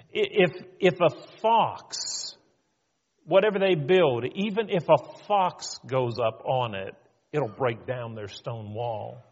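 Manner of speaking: lightly acted ridicule, leaning on the fox; mocking. Tobiah jumps in to ridicule the builders, mildly mocking. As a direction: poke fun at their flimsy wall. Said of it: "They're making fun of them".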